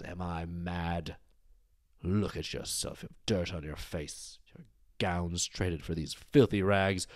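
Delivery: a hint of a menacing queen, quietly venomous, slow in places; lightly voiced cold fury, dragging out the threats; vicious queen. Queen tearing apart the captive young queen, quiet vicious menace. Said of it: "quietly at first, but viciously tear her apart".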